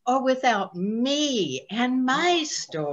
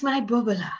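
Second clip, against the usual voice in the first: tender whisper; 3 dB quieter, much faster than usual. Real, not acted.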